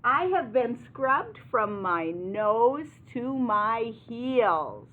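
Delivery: hammed-up piggy complaint; squealing pig. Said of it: "The pig squeals".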